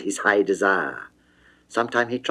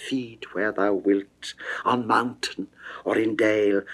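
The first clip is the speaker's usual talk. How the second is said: seductive murmur; 4 semitones lower, 6 dB quieter than usual. Acted. Venus seduces Adonis, hushed.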